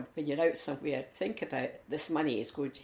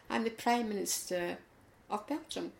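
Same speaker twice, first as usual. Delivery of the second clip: pompous, a touch higher; mock-dignified announcement of his title; drawing himself up; 7 semitones higher than usual. The Belgian Prime Minister, drawing himself up to reply to Malcolm with mock dignity. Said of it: "drew himself up and said".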